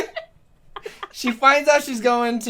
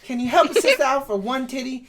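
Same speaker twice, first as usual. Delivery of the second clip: pleading bargaining; 5 semitones higher than usual. Retold or imitated. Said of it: "she goes".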